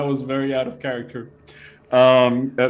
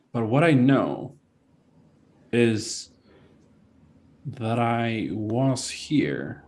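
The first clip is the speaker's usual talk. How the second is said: lightly voiced ancient being, pausing often; measured, enigmatic entity; 3 semitones lower, 3 dB quieter than usual. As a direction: answer slowly and thoughtfully as an otherworldly entity. Game master answers as the entity.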